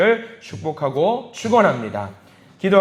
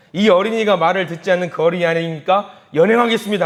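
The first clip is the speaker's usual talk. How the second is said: put-on police officer addressing child; 3 semitones higher, 6 dB louder than usual. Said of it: "경찰이 아이에게 말을 하는 거예요".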